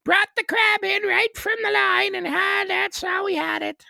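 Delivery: high, loud hammed-up Newfoundland voice; Newfoundland accent. Guest voices a Newfoundland local telling the band off, hammed-up high accent. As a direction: play a Newfoundland fisherman talking to the band. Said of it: "That's a little more Ottawa Valley with Newfoundland".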